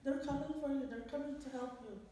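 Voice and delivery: put-on soft, soothing little-girl voice; reassuring child. Little girl keeping her auntie awake until help comes, reassuring. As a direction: gently keep someone calm and awake. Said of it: "ngomong sama saya".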